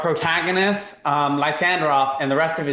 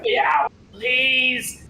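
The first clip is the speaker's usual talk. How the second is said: eager yes; 7 semitones higher than usual. Retold or imitated. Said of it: "And he's like".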